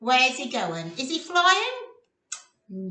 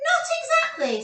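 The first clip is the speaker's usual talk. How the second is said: Roxy voice; 13 semitones higher, 3 dB louder than usual. Acted. Roxy voiced in read story.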